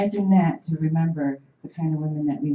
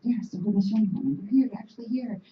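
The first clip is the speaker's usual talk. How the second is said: higher, eager crowd voice, lightly voiced; excited crowd voice; 5 semitones higher, faster than usual. Crowd greeting the arriving Haudenosaunee women, lightly excited. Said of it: "They're like".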